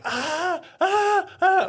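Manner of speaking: loud, very high "ah" yelps; short bursts of mock screaming; high-pitched scream. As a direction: imitate your own panicked, high-pitched screaming. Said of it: "it was a little high-pitched".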